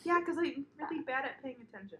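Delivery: tipsy, loose speech. Real, not acted. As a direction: talk like a few drinks in. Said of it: "I'm very drunk right now as well".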